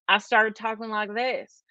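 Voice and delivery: put-on lightly twangy moonshiner accent. Woman admits picking up the show's talk, moonshiner accent. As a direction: slip into a little moonshiner-show accent. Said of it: "I had a little accent".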